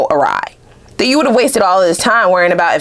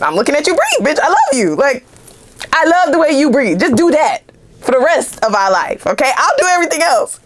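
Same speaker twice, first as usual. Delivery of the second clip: smitten lover; 7 semitones higher than usual. Pretend. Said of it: "They're just".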